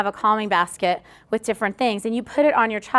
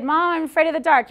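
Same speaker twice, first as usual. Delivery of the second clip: put-on kid's voice; 5 semitones higher than usual.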